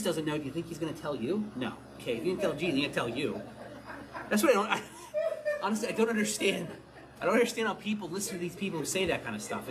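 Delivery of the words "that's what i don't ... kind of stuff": laughing through the words, incredulous; laughing disbelief. Real, not acted. Preacher mocking date-setters to congregation, laughing disbelief. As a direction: chuckle as you say it, can't believe it.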